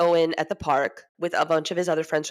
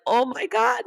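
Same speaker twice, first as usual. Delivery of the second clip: higher, louder thrilled exclamation; delighted reaction; 6 semitones higher, 4 dB louder than usual. Retold or imitated. Doctor thrilled by a signed basketball gift, delighted. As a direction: gush it like an overjoyed doctor.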